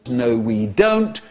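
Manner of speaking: slow, high-pitched rebuke; exasperated scolding. Acted. Teacher answering their own question to the class, exasperated. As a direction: drag it out high, as a telling-off.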